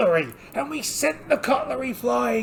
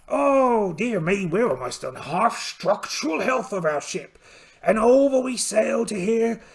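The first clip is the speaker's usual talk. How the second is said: hammed-up pirate captain telling his voyage. Pirate captain recounting his voyage to the listeners, hammed-up pirate voice. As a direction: spin the tale like a proud old sea captain. Solo pirate journaling game narration.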